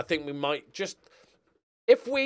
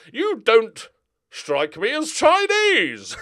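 louder, higher, slow mock-suspicious drawl; teasing disbelief; 9 semitones higher, 12 dB louder, much slower than usual. Real, not acted. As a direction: tease him, stretching every word. Teasing the player's nationality.

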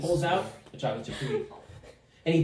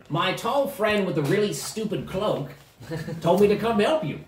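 higher, lightly voiced gnome; quirky gnome; 4 semitones higher than usual. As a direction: deliver the message as an odd little gnome. Gnome figure speaks.

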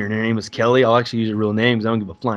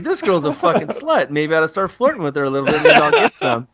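inner voice; 6 semitones higher than usual. Retold or imitated. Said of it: "I was like".

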